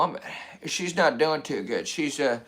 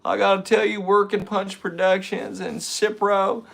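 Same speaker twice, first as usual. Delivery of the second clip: Bill Clinton. Acted. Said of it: "You gotta have Bill Clinton".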